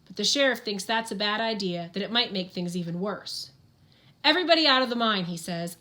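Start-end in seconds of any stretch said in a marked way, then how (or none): 4.2-5.2 urgent order. Acted. Sheriff ordering everyone out.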